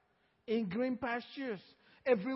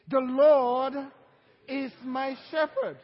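loud call and response; 7 dB louder than usual. Shown as a demonstration. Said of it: "Say it with me".

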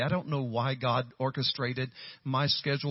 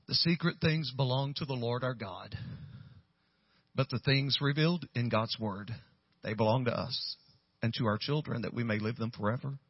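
measured reading with pauses between phrases; scripture reading; 3 semitones lower than usual. Retold or imitated. Pastor reading the note's verse to Michelle, measured scripture reading. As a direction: read the verse out evenly, settling lower.

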